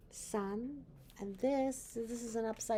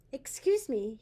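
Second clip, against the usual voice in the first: polite ghost; 4 semitones higher, 7 dB louder than usual. Acted. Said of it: "he asked a police officer".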